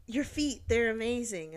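lightly voiced admirer praising her; admiring stranger. Stranger approaches a woman sitting outside, mildly gushing. Stranger's compliment, first try.

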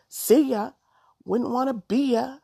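high, loud sing-song sass; cheeky kid's dismissal; sassy taunt. A narrator's reading. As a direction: toss it off like a playground taunt. Child's sassy taunt in story.

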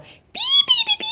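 very high chirping; cheerful chirp. A narrator's reading. Bird chirps goodbye to Felipito flying home. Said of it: "el pajarito le contestó mientras volvía volando".

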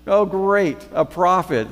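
high, loud, sassy retort; feisty. Retold or imitated. Samaritan woman sassing Jesus at the well, feisty and loud. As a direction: needle him with mock amazement. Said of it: "she's still kind of feisty".

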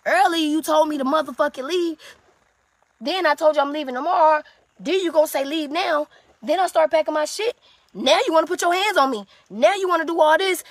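high, loud, indignant accusations; angry retelling. Retold or imitated. Confronting the woman over her mixed messages, angry and indignant. Acted quarrel throwing her words back.

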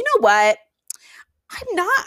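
conspiratorial whisper; hushed confession, rising on I'm not. Real, not acted. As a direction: lean in and whisper it like a secret. Confiding she feels no remorse.

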